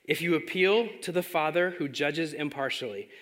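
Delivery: unhurried reading, letting each phrase land; slow scripture reading. Shown as a demonstration. Preacher reads the whole passage slowly so it soaks in. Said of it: "I'm gonna read it a little slow".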